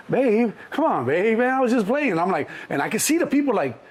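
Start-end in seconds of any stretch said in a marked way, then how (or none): 0.1-2.2 high-pitched pleading sweet-talk; sheepish coaxing. Retold or imitated. Man to girlfriend storming off, sheepish pleading. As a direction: coax her back, embarrassed.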